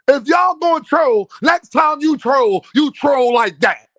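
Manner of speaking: shouted instruction. Real, not acted.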